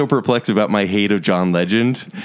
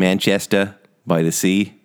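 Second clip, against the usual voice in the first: light mock Boston accent, lower pitch; 4 semitones lower than usual. Shown as a demonstration. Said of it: "Say it with the Boston accent".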